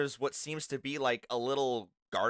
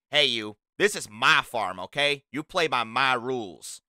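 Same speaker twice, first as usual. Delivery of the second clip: stern warning; 7 dB louder than usual. Acted. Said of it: "It's like".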